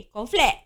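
"cornflake" as "konflek", no S; Malay pronunciation. Shown as a demonstration. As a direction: say "cornflake" with a short "flek". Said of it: "Habis kalau K O R N F L A K".

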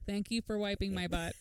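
flat, droning, no feeling at all; boring droning parody; monotone. Retold or imitated. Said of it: "In the most monotone voice".

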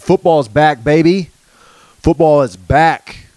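hyped fan cheer. Real, not acted. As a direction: hype it up for the season.

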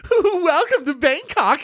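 high, sing-song mock welcome; high mock-cheery welcome; grating greeting voice. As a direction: chirp it like an annoying greeter. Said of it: "somebody in that voice says".

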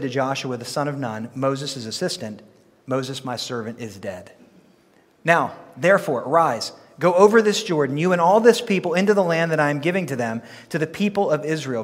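measured, solemn Bible reading; scripture reading. Acted. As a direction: read the Lord's words with weight. Reads scripture aloud.

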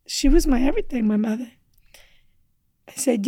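usual speaking voice

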